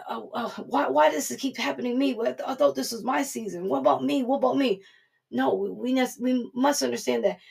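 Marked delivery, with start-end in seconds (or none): 0.1-4.8 mock whining, pitched up; complaining believer whining about her turn; whiny self-pity. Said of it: "complaining about what others have".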